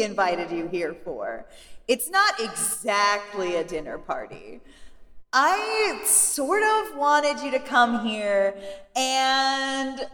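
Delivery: gleeful villain over loudspeaker, lightly voiced; slow cheery menace, booming from above; slow theatrical villain menace. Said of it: "So villainous!".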